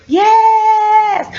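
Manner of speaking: high shouted yes; emphatic yes. Real, not acted. Confirming dogs in prison, shouted high. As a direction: burst out with it.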